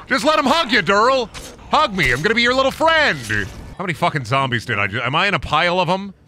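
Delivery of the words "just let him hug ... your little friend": high, sweet mock coaxing; high sugary voice begging for a hug; cutesy hug voice. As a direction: coo at the zombie like a cuddly little friend.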